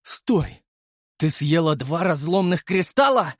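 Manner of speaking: shocked shout; exclaimed. A narrator's reading. Master shaking the golem, shouting in shock. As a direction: cry out in disbelief. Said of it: "воскликнул я".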